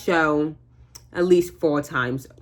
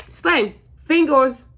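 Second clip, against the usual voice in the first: sassy hype; 9 semitones higher, 4 dB louder, slower than usual. Real, not acted. Hyping herself up.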